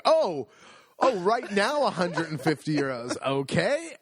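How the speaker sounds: mock shock at the price. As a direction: act caught off guard by the bill. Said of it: "It's like".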